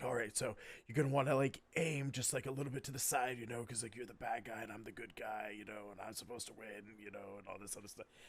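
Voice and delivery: low-key, sneaky, secretive, hushed half-whisper. Voicing a character telling a player to aim aside before a joust: half-whispering. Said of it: "kinda whispers to you, he's like".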